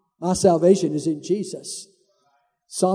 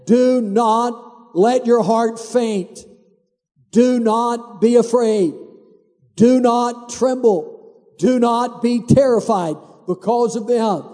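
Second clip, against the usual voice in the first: solemn exhortation; slower than usual. Retold or imitated. Priest rehearses the battle exhortation.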